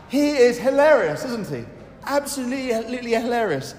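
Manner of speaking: amused praise. Real, not acted. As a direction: gush about how funny he is. Fond joke about the curate.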